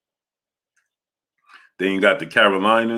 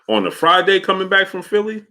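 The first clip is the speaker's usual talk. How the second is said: much higher, disbelieving question; incredulous; 11 semitones higher, 3 dB louder than usual. Real, not acted. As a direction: pitch it way up in real disbelief. Disbelief at Friday Philly traffic.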